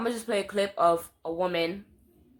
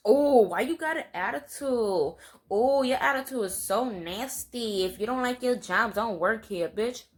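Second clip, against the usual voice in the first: lightly mock someone whining about your attitude; exaggerated customer complaint, raised pitch; mock complaining customer; 3 semitones higher than usual.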